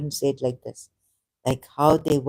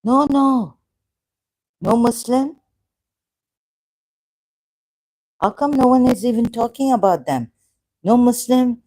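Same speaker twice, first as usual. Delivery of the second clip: raised, higher, insistent demand; indignant outcry; 6 semitones higher, 4 dB louder than usual. Real, not acted. Streamer berating Muslim viewers, indignant raised voice. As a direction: call them out, voice climbing.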